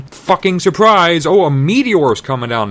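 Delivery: spring the twist on them; a loud high mock announcement; mock surprise. A narrator's reading. Sudden meteor twist.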